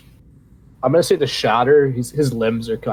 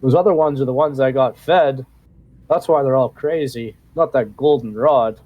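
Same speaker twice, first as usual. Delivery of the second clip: higher, pleading goblin prisoner; 4 semitones higher than usual. Acted. GM voices starved goblin.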